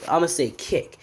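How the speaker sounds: usual speaking voice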